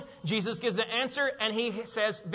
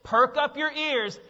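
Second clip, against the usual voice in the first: urgent call for attention; 2 semitones higher, 3 dB louder than usual. Acted. Jesus to his hearers, urgent call for attention. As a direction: demand that they really listen. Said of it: "It's like saying this".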